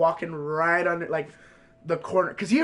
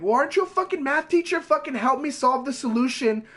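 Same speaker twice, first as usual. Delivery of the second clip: mocking; 6 semitones higher than usual. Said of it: "went full on fucking asshole mode".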